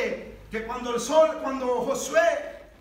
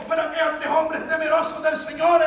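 raised, fervent preaching voice; full-force preaching; 3 semitones higher, 6 dB louder than usual. Real, not acted. Preacher praises the men who feared the Lord, fervent preaching. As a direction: proclaim it to the congregation.

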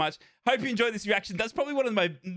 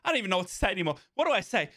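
breathless after screaming; out of breath; faster than usual. Real, not acted. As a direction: gasp the words out winded. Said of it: "I'm out of breath".

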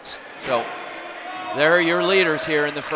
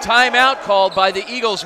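energetic live basketball call; play-by-play. Acted. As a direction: call the action as it happens.

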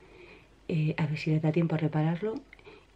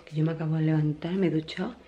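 stage whisper. Real, not acted. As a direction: whisper so no one wakes up. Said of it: "Hablo bajito".

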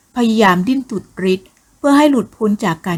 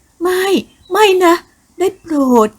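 high pitched, loud no, no, please; desperate begging; 11 semitones higher, 3 dB louder than usual. Acted. Woman refusing the man's advances, high desperate begging. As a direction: plead frantically, voice pitched way up.

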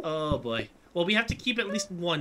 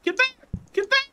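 high, loud urgent shout; 7 dB louder than usual. Real, not acted. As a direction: yell to drive them back. Shooing pests in game.

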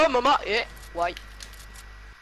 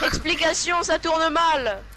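high, loud and slow doom voice; dramatic clickbait caption; 6 semitones higher, 4 dB louder, slower than usual. Pretend. Narrating a fake thumbnail, hammed-up drama. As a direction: stretch the ominous caption. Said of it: "Tu mets ça en miniature".

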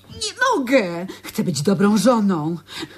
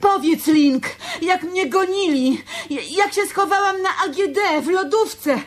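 much higher, laughing eager recital; giddy excitement; 7 semitones higher than usual. Acted. To Link, urging him to tell the story, giddy and laughing. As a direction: bubble over as you relive the rescue.

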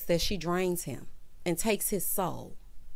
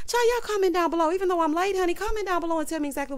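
excited; 9 semitones higher, 3 dB louder, faster than usual. Real, not acted. Outro call to viewers.

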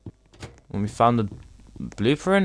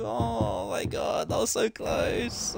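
breathless relief; 8 semitones higher, 6 dB quieter, slower than usual. Real, not acted. Relief after escape.

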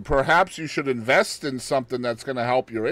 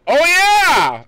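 much higher and louder, a delighted whoop; gleeful exclamation; 12 semitones higher, 7 dB louder than usual. Retold or imitated. Host imagines the man seeing the Lego dot, whooping with delight. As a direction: cheer like you just found a long-lost toy. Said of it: "He probably looked down and went".

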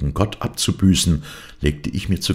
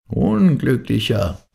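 slow, much higher dervish rebuke; stern dervish; 9 semitones higher, 3 dB louder, slower than usual. A narrator's reading. Dervish rebukes the blinded man, slow and much higher. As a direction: drag the word out from on high, pitying.

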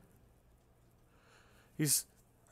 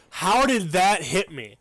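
raging gamer; 4 dB louder than usual. Real, not acted. Raging at the hit on him.

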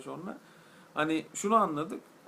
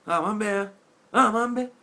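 put-on Thrace accent; 5 semitones higher, 9 dB louder than usual. Trakya aksanıyla "aman be". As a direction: toss it off like an old man from Thrace. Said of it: "Trakya aksanı geldi aklıma".

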